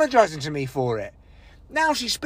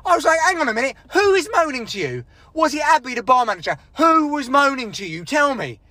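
raised, demanding challenge; confrontational, irritated questioning; getting shirty; 3 semitones higher than usual. Retold or imitated. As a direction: demand an answer, indignant and higher. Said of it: "I started getting shirty".

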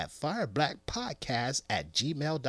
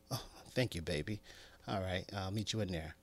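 smug soft thanks; 5 semitones lower, 11 dB quieter, faster than usual. Acted. Man's smug soft reply.

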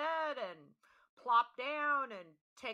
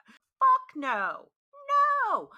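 louder, a blunt disgusted no; loud refusal; 13 dB louder, much slower than usual. Real, not acted. Reacting to the boyfriend's litter box, loud and disgusted. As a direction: shut it down hard.

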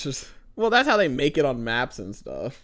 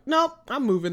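higher, quick flat refusal; mock panic; 10 semitones higher, 3 dB louder than usual. Reacting to a spider picture online, playful refusal. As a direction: bail out instantly, half joking. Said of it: "I'm like".

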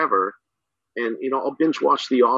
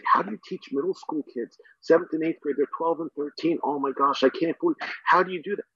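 higher-pitched imitation of amazed people; mock disbelief; 3 semitones higher, 3 dB quieter than usual. People asking a middle school teacher how they cope, mock disbelief. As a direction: act out someone baffled by your job.

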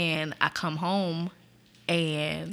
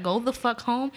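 supervisor's blunt order; 3 semitones higher than usual. Retold or imitated. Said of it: "he said it just like".

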